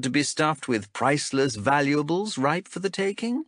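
lightly voiced stern elf captain; a hint of a cool interrogator. Zenthi voiced by narrator.

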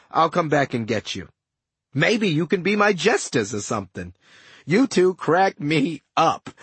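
sly, boastful ghost with a sneer; smug villain voice. Acted. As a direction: gloat like a scheming ghost. Setna taunting captives.

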